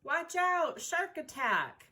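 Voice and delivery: playful high alarm call, slowing on shark attack; mock warning. Teacher dramatizing the shark attack for kids, mock urgent. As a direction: warn of the shark like a storyteller hamming it up.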